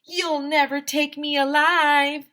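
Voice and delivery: high, loud, slow battle cry; slow loud defiant yell; defiant shout. Shown as a demonstration. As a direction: yell it like a cornered movie hero. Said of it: "you should always shout".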